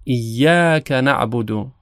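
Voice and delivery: slow, measured Arabic recitation; Quran recitation. Shown as a demonstration. Teacher reciting the verse slowly for students, measured. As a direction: recite it carefully, Arabic style.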